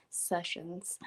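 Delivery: breathy, soft whisper, still giggling; trying to get the word out through laughter. Real, not acted. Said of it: "I can't even talk now".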